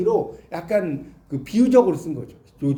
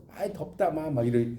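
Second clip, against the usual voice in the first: Gyeongsang dialect; 6 semitones lower, 6 dB quieter than usual. Retold or imitated. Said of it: "경상도 말이 재밌죠".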